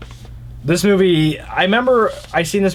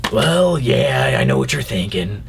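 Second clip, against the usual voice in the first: put-on actor impression, dropping lower; Nicolas Cage; 6 semitones lower than usual. Movie fan mimicking an actor, Nicolas Cage impression. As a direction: mimic the actor, letting the pitch sink. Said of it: "That was a Nicolas Cage impression".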